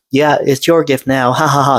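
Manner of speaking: sister's taunting laugh, lightly imitated; half-hearted mock cackle over the gift. Sister gloating to little brother, a mild mocking laugh. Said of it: "and started laughing".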